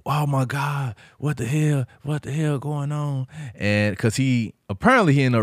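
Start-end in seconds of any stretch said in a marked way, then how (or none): 0.1-3.3 higher-pitched stunned disbelief; high-pitched mock astonishment; retold shock. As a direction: imitate a friend reacting in shock. Retells friend's shocked reaction.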